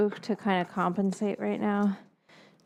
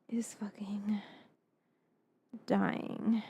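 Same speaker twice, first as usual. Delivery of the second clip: whispering; 3 semitones lower, 10 dB quieter, slower than usual. Real, not acted. Whispered complaint, camera dying.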